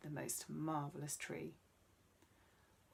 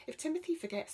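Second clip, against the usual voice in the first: put-on child voice; 10 semitones higher, 6 dB louder, faster than usual. Emma speaks up.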